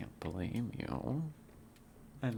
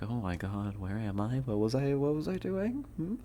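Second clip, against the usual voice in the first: rising, higher bewildered question; dazed confusion; 3 semitones higher, 3 dB louder than usual. Retold or imitated. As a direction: act suddenly lost, pitch climbing. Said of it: "You're like".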